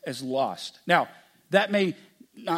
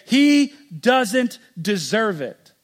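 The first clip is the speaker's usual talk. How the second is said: indignant; 3 semitones higher, 7 dB louder, much slower than usual. Pretend. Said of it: "would say".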